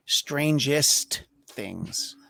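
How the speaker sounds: very slow announcer reading of "Strangest Things"; slow title announce. Shown as a demonstration. Pitching a joke title for the sequel, very slow trailer read. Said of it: "should have called it".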